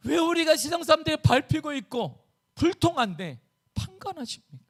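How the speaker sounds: high, pleading outcry; impassioned protest. Acted. Preacher as Habakkuk, chosen people questioning God, impassioned protest. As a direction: plead with God in aggrieved disbelief. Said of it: "하박국은 항변함을 외칩니다".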